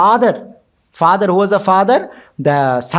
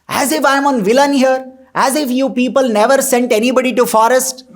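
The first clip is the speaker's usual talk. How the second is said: a raised, indignant retort, only partly acted; angry queen; 4 semitones higher than usual. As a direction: toss the blame back at the king in mock fury. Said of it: "her anger increased even more".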